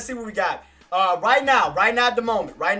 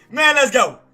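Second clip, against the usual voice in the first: loud hype shout, slightly less high; excited cheer again; 5 semitones higher, 9 dB louder than usual. Real, not acted. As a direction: keep cheering the win. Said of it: "I'm just excited".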